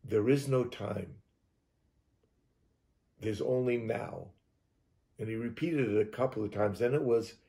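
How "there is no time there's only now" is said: slow, measured message from a mysterious voice; lightly voiced trance message; disembodied voice heard in trance. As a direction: deliver it slowly, with weight. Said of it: "I hear this voice say".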